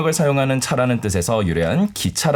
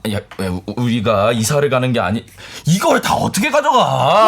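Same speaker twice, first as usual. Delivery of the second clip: exasperated husband; 3 semitones higher than usual. Acted. Husband protests the load.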